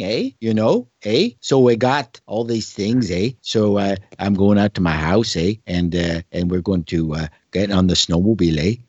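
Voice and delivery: lightly voiced Ottawa Valley talk with tagged-on "eh"; hint of Ottawa Valley, punch each "eh"; Ottawa Valley accent. Shown as a demonstration. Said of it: "That's actually an Ottawa Valley thing".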